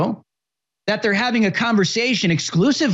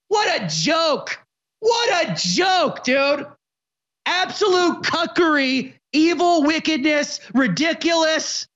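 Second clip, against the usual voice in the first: outraged; 5 semitones higher than usual. Real, not acted. Outraged shouting.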